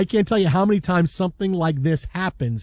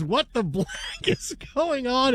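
mock anchor outburst; 5 semitones higher, 5 dB quieter than usual. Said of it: "and then she says".

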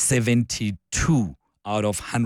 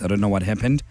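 hoarse, croaky morning voice; 2 semitones lower than usual. Real, not acted. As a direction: speak through a croaky throat. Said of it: "apologize for my croaky voice".

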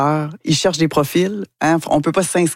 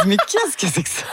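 laughing disbelief; 6 semitones higher, 3 dB quieter than usual. Retold or imitated. Bewildered on the set.

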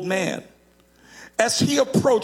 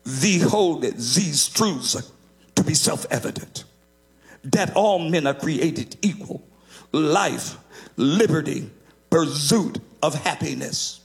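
put-on slow, lower old man with a Russian accent; heavy Russian accent; 4 semitones lower than usual. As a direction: quote the Declaration in an old Russian immigrant's accent. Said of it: "with a heavy Russian accent".

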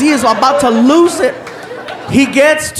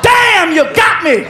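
laughing surprise; 7 semitones higher, much slower than usual. Retold or imitated. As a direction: burst out as the joke lands. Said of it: "and he's like".

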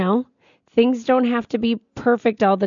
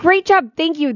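higher, louder cheerful praise; delighted praise; 7 semitones higher, 3 dB louder than usual. Real, not acted. Praising the listener who named the restaurant, with delight. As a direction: praise them like a proud teacher. Praising whoever found the name.

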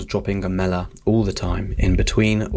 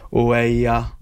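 sarcastic; 4 dB louder than usual. Shown as a demonstration. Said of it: "a sarcastic".

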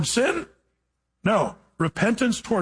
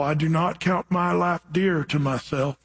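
slow southern drawl. Retold or imitated. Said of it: "he talked really slow like this".

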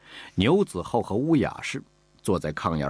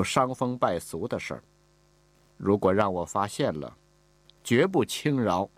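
stern mistress; 3 semitones higher than usual. Acted. Mistress lecturing the new concubine, stern and unbending. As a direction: lay down the house rules coldly, no room to argue. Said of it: "口气是不容置疑".

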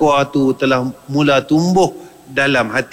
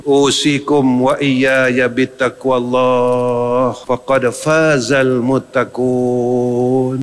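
slow recitation; 2 semitones lower, much slower than usual. Shown as a demonstration. Quoting the khutbah formula.

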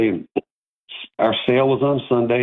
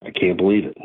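stunned disbelief. Retold or imitated. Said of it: "I'm going".

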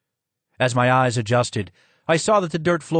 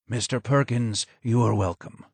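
low hoarse voice; 3 dB quieter than usual. Acted. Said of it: "was low and hoarse".

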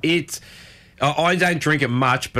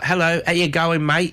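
put-on everyday Pommy accent, pitched up; normal English accent; 5 semitones higher than usual. Podcast host showing a friend how Poms greet, mock English accent. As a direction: imitate a regular English greeting, higher. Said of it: "you got the normal".

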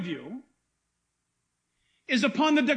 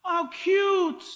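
mock cooing; 3 semitones higher, much slower than usual. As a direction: gush over the little lamb. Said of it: "just like you said".

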